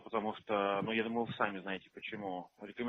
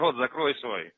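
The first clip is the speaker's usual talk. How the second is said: shouting match; 3 semitones higher, 9 dB louder, slower than usual. Real, not acted. Phone quarrel with caller.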